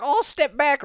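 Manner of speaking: high, loud hillbilly yelp; scared yokel. Retold or imitated. Townsman backing away from the monster, loud hillbilly yelp. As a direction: recoil in mock fright, Southern twang.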